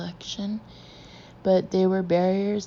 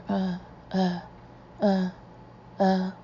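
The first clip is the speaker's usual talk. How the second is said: monotonous terrified chant. A narrator's reading. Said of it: "monotonous chant of stark terror".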